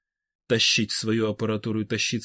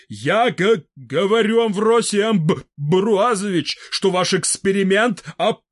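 stuttering, rising and a bit louder; agitated stammering old man; 7 semitones higher, 6 dB louder, slower than usual. A narrator's reading. Fedor Semenovich pleading with Vybegallo, agitated stutter. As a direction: stammer out a worried protest.

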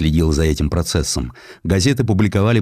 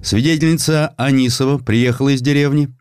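plain reading voice

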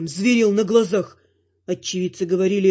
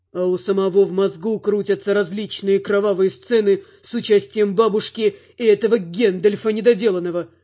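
plain reading voice

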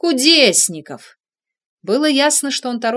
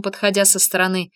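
ordinary delivery, nothing marked

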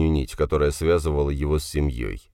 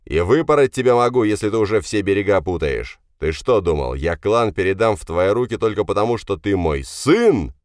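father's raised, scolding voice; angry threat; 4 semitones higher, 4 dB louder than usual. Acted. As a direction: threaten him, then challenge him indignantly. Father threatens and berates son. (сердитая угроза отца)

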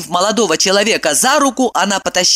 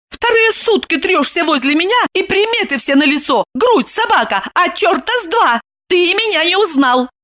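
angry; 11 semitones higher than usual. A narrator's reading. Evdokia angrily demands an answer from Kirillov. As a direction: snap back at him.

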